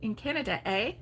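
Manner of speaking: light Canadian "eh?" with rising ends; mock Canadian accent. Teasing a viewer who talks country, in a mock Canadian accent. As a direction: tease with a Canadian "eh". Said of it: "you say".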